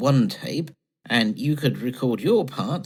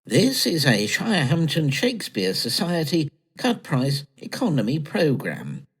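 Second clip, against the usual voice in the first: lightly voiced radio announcer; a mock-grand opening. Reading the announcer bit of their homemade play, a light announcer voice. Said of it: "I'll read the announcer bit".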